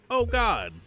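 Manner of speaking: high, loud cry of grief; mother gasping at the terrible news; anguished cry. Acted. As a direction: let the heartbreak out high. Hears baby was lost.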